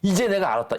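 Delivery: 이제 jumps up high and lands firmly; emphatic paraphrase. Shown as a demonstration. Paraphrase of the verse. (높은 목소리로 힘주어 풀어 말하기)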